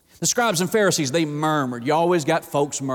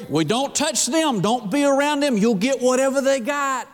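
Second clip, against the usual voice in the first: mock scared kid; 7 semitones higher than usual. Schoolkids fearing cooties.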